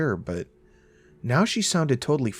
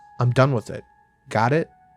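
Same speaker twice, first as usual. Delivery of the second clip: usual speaking voice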